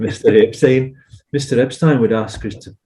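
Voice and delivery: lightly attempted accent of a band; a hint of a put-on accent of the band; imitated accent. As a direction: have a rough go at the band's accent. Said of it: "sorry for the accent".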